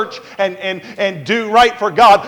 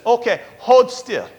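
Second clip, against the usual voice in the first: imitated Indian doctor; 5 semitones higher than usual. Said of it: "and she says".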